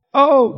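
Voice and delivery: high, loud fake cry of pain; a loud play-acted yelp; mock scream. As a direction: ham up a sister's pretend scream. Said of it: "she would scream".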